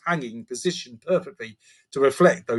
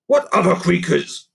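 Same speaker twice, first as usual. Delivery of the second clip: higher goblin voice, puzzled; curious creaker; 5 semitones higher, 5 dB louder than usual. Acted. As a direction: ask the others, genuinely lost. Gruff curious creature voice.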